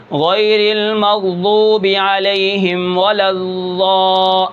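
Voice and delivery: غیر المغضوب علیہم ولا الضا slow, ض said as a pure ظ-like 'za'; drawn-out recitation with the ض flattened to pure za; pure wa sound, wrong. Shown as a demonstration. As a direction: recite الضا slowly with a plain za sound, shown as an error. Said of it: "یہ بھی غلط ہے".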